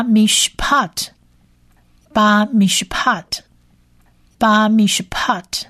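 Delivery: 巴米什帕特 in even syllables, ending on a light T; whole-word pronunciation model. Shown as a demonstration. Teacher giving the whole word, 巴米什帕特 in careful syllables. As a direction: model 巴米什帕特 for repetition, closing on T. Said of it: "这整体的这个字发音起来就变成".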